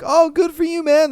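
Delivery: mean it fully; sincere praise. Retold or imitated. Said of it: "People don't really be like".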